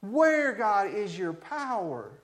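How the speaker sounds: high, slow plea to heaven; prophet questioning God. Acted. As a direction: stretch each word as a challenge to God. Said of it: "he's just saying".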